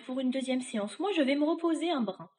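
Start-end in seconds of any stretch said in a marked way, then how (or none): 1.0-2.3 put-on higher-pitched old witch line; a hint of a witch's voice; lightly voiced witch. Witch to her victim before a rest, lightly voiced.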